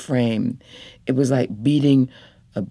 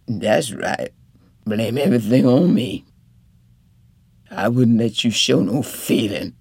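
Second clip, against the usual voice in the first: a lightly voiced bitter sick man; resentful husband. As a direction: throw the blame back at her.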